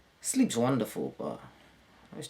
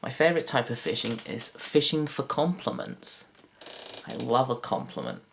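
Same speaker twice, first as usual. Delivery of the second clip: ordinary talk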